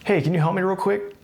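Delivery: upbeat, easygoing request; friendly, lifted ask. Shown as a demonstration. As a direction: make it a casual favour. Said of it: "A better way to say this would be".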